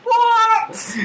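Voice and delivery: high shocked squeak; shocked what. Real, not acted. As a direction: blurt it out in disbelief. Shocked by what the leaflet says.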